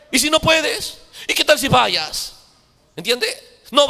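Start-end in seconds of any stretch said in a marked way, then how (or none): 0.1-2.3 doubting voice. Acted. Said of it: "Te empieza a decir".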